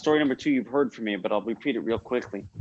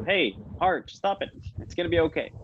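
higher-pitched, lightly acted reassurance; lightly voiced inner pep talk, pitched up; reassuring self-talk; 5 semitones higher than usual. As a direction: gently tell yourself off, then reassure. Mind voiced calming the heart.

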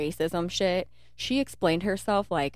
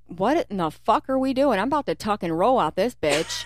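louder, higher retold alarm; 4 semitones higher, 5 dB louder than usual. Retells panic in the car.

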